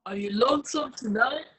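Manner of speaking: quick whispery mimic of a man; toned-down male voice. Actor retrying after being told not the extra, whispery male mimicry. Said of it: "No, not the extra".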